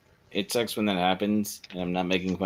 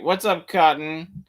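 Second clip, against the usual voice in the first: pet greeting voice; 6 semitones higher, 3 dB louder, slower than usual. Pretend. Greeting dog in voice.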